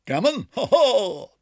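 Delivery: high, loud squawking cry; magpie doctor. A narrator's reading. Doctor Maggotty answering Ribby, squawking. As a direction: squawk like a bird. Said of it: "said he, with his head on one side".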